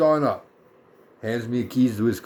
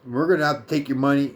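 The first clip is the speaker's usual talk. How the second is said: attitude; 4 semitones higher than usual. Retold or imitated. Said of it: "gives me a little bit more attitude".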